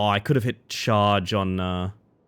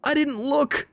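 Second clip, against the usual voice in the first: very high dismayed squeal; high-pitched whine; slower than usual. Real, not acted. Player laments not looking, high-pitched whine.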